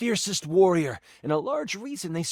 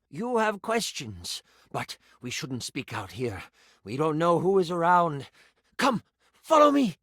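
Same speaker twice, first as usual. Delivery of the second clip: a hint of a guarded priest, then calling follow me; cautious priest, rising to an urgent summons; lightly voiced village priest; 2 semitones higher than usual. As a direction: priest warning a villager, then beckoning them along.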